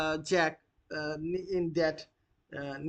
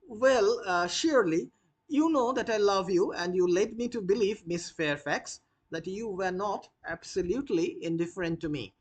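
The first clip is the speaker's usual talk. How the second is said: Gwendolen, lightly voiced; 3 semitones higher than usual. Teacher reading Gwendolen to her suitor, lightly voiced. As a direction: lightly play a well-bred young woman, a little hurt.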